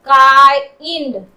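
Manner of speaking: loud, slow काइंड, split "kaai-ind"; drawn-out sounding out. Shown as a demonstration. Teacher showing the I sound, काइंड slowly sounded out. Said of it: "आई के रूप में".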